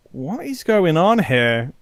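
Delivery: slow, drawn-out mock bafflement; stretched-out puzzled question; baffled stare. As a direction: imitate someone slowly puzzling it out. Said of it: "they stare at you".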